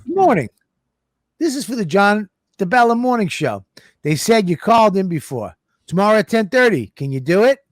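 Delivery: put-on perky phone-message delivery; happy voice. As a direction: read it out as if happy. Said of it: "Read it in my happy voice".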